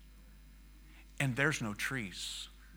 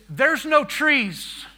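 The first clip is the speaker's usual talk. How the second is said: high, loud, drawn-out cry; translated scream; 11 semitones higher, 9 dB louder, much slower than usual. Retold or imitated. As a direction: cry out slowly in imitated alarm. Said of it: "He screamed".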